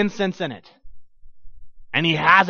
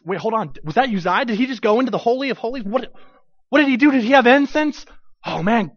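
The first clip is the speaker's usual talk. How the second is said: alarmed onlooker; 5 semitones higher than usual. Acted. Preacher voicing alarmed onlookers.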